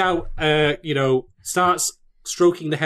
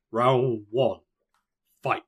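fighting game announcer; 4 semitones lower, much slower than usual. Pretend.

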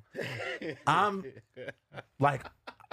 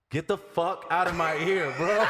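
mock annoyed protest; 4 semitones higher, 3 dB louder than usual. Retold protest at the whispering.

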